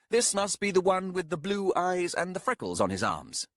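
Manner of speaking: sly amused aside; young man voice. Acted. Arathan voiced.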